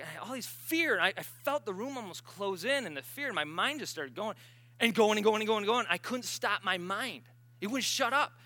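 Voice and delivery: panicked retelling. Retold or imitated. Sister telling of her panic.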